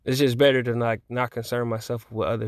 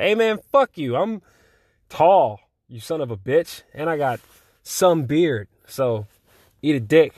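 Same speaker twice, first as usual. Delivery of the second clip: mock-tough teenage comeback, pitched higher; teenage self; 3 semitones higher, 3 dB louder than usual. Retorting to an adult who calls him a kid, mock defiant. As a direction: play your cocky seventeen-year-old self mouthing off. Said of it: "that's how I talked".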